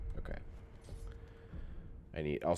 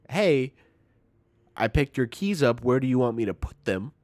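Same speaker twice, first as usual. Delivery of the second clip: bright mock cheer; 6 semitones higher, 9 dB louder than usual. Retelling cheerful greeting to grandma.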